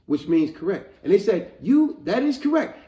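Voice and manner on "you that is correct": high, loud excited verdict; mock judge's announcement. Voicing the judges telling the boy he won, excited. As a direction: proclaim it like a thrilled contest judge.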